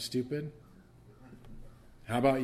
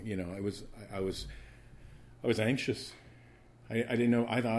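ordinary delivery

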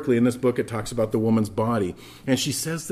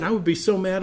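usual speaking voice

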